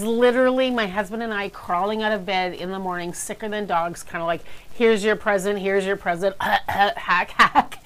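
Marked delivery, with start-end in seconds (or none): 4.7-7.8 sick voice. Retold or imitated. Sick couple exchanging gifts.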